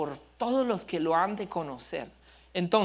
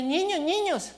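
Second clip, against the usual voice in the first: put-on high child voice calling out to the kids; a small boy shouting to friends; little boy calling; 9 semitones higher than usual. Little son calls the neighbourhood kids, high child voice. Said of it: "Y él para y dice".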